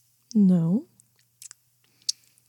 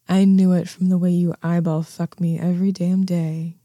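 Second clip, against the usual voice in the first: ordinary talk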